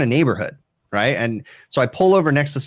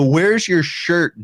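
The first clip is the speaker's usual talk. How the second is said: incredulous question; 6 semitones higher, much slower than usual. Retold or imitated. Asking shirtless brother.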